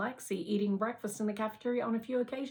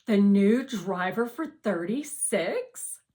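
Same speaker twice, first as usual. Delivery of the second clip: put-on girl voice; 2 semitones higher, 9 dB louder, slower than usual. A narrator's reading. Lexi voiced.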